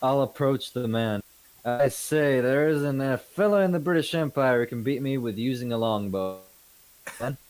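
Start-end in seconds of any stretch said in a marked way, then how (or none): 1.6-6.4 British officer. Acted. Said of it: "I'm supposed to be impersonating a British officer".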